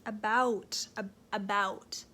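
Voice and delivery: slow, careful "about"; sounding out "ab-, about" deliberately; trying the word "about" slowly to hear it; testing about. Shown as a demonstration. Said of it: "Do I say about?".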